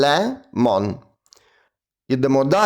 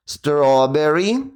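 slowly; slower than usual. Shown as a demonstration. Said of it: "Потренуємо це слово".

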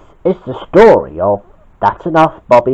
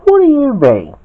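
mildly cross question; high start, falling away; lightly acted indignation; 14 semitones higher, 3 dB louder than usual. A narrator's reading. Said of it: "asked Bobby crossly".

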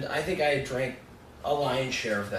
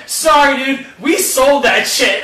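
laughing mock apology; 10 semitones higher, 12 dB louder, slower than usual. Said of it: "And she said".

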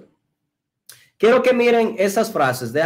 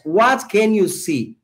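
slow clear demo; slower than usual. Shown as a demonstration. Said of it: "la pregunta es".

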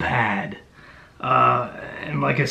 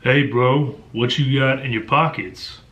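mock audiobook American character voice; badly faked menacing street youth; monotone American thug. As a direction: imitate a narrator's bad American accent. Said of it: "Just a simple monotone that is just atrocious".

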